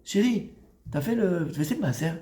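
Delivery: softened, tender question to a spouse; gentle asking. Acted. Husband asking his wife about the tithe, gently. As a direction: ask sweetly, without pressing. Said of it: "Mais comment tu le dis?".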